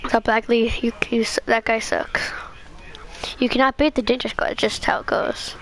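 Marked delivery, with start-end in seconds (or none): 1.5-2.3 slow whispered insult; slow hushed put-down; whispered jab. Real, not acted. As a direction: mutter the jab off-mic. Insulting a player, aside.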